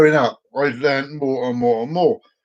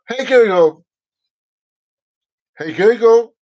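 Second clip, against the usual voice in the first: repeating to voice assistant; 6 semitones higher, 5 dB louder, slower than usual. Real, not acted. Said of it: "She's not working now".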